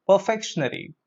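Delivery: "Perfectionary" as per-FEK-shun-ary; mispronunciation. Shown as a demonstration. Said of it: "That's incorrect pronunciation".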